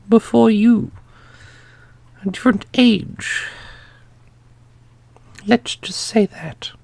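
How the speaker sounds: custodian character voice. Acted. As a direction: play the custodian with a high, lofty, amused tone.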